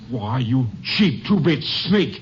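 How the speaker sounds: slow, drawn-out scorn; contempt. Acted. Sheriff insulting the bribed constable, slow contempt. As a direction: spit each word out slowly.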